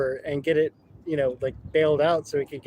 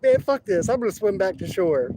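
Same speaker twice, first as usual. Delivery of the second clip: higher, louder fed-up outburst, easing on the second line; 4 semitones higher, 4 dB louder than usual. Retold or imitated. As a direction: blurt it out, done with the whole thing. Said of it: "he's like".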